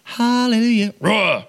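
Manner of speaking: high sung-out cry, then a growl; hammed-up high holler dropping into a roar; mock argument shout. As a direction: burst out in comic pious yelling. Joking version of the argument noise.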